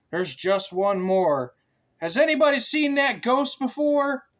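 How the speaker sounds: high, loud spooky-teasing toad. Acted. Toad asking the animals about the ghost, high and teasing. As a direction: ask it like a toad building suspense.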